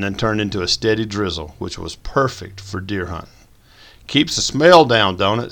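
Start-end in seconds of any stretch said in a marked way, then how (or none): 4.1-5.5 statement not question. A narrator's reading. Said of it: "chimed in as a statement".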